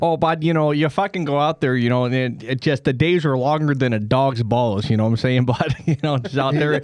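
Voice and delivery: lightly voiced Canadian with Texas twang; Texan-Canadian accent. Canadian who's been to Texas chatting, mixed accent. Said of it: "Canadian accent, like, mix Texas with Canada".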